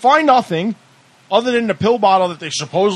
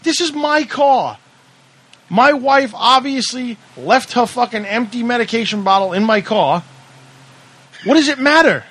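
retold protest; 4 semitones higher than usual. Driver arguing with the cop over the bottle, heated. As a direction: hammer out each word in disbelief. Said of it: "I said".

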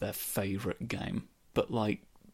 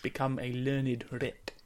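squeaky rat voice. Pretend. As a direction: declare like a grand tiny rat. Rat voice answering.

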